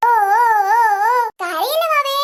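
slow, drawn-out cooing; soothing a baby. Acted. Big sister to crying newborn, soothing coo.

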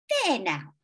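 put-on high kindly old lady; sweet elderly neighbour, lilting. A narrator's reading.

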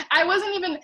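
laughing through the words. Real, not acted. Telling viewers the story, breaking into laughter. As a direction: giggle as you start the line.

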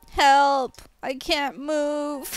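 high, drawn-out fake cry for help; hammed-up pretend distress; mock helplessness. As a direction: play at being stuck and helpless. Pretends to be hacked and stuck.

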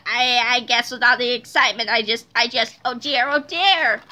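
low, stammering doctor in distress; flustered villain voice. A narrator's reading. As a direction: stammer excuses, slowing into a dismayed "oh dear". Embarrassed Doctor Diaper stammers excuses.

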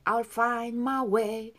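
"find" with its d dropped, running into "my way"; weakened final d. Shown as a demonstration. Teacher models for learners, "find" with a swallowed d. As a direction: draw out "I'll find my way", d barely there. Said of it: "더 약하게".

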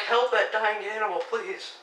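high, slow strained wail; dying animal voice. Retold or imitated. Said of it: "sounds like your vocal cords are dying".

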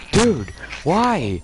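high, loud wail of protest; very high, indignant yelp; exasperated outcry. Real, not acted. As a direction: cry out at a teammate in exasperation. Upset at being shot by teammate.

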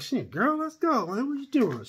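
high, hammed-up enthusiasm; playfully eager. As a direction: play-act jumping at a lover's invitation. Acts out eagerly answering the woman.

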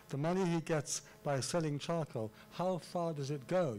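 measured beats on MONEY, GETS, SELLING, CHARCOAL, HOW, FAR, GO; emphatic artificial reading. Shown as a demonstration. Lecturer showing seven stresses in a verse line, emphatic reading. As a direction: stress each key word through to "go". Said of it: "read it in a rather artificial way".

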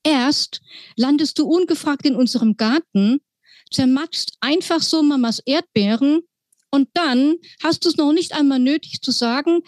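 lightly voiced scolding girl; Lilly's voice. Lilly complains to the mouse about the crushed strawberries.

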